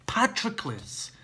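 anguished cry. Acted. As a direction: cry the name as the truth hits. Repeating the name in anguish.

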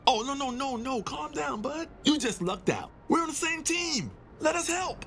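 upbeat, chummy sidekick gun; a buddy-buddy gun calming a nervous stranger; cheery talking gun. Acted. Talking gun calms the panicked doctor, chummy and upbeat.

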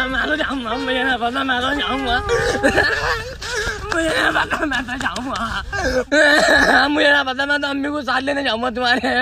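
put-on a sobbing, whining kid voice; a little boy sobbing and begging to be taken along; wailing child tantrum. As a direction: cry and insist like a stubborn child.

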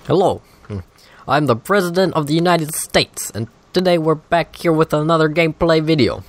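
Obama voice. Pretend. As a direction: play the president greeting viewers. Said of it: "I can't really do an Obama voice".

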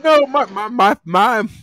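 strained, high and pained from the heat; gasping through a burning mouth; mouth burning from spicy food. Real, not acted. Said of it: "my mouth is still burning".

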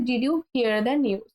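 slow, clear teacher's model; slow model sentence. Shown as a demonstration. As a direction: say it very slowly and clearly for learners. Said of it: "teacher models slow English". (ধীরে স্পষ্ট করে বলা)

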